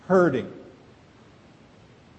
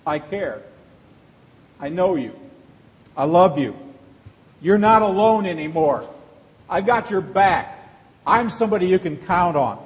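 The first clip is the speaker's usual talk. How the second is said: sincere reassurance. Retold or imitated. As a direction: tell a hurting friend you're there for them. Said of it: "what you're really saying is".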